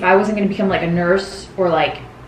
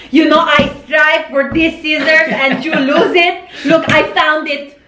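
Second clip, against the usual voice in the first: stressed mom; 5 semitones higher than usual. Retold or imitated. Mom showing how hard she searched for scissors, stressed. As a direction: imitate a mom at the end of her rope. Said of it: "she shows you how stressed she is".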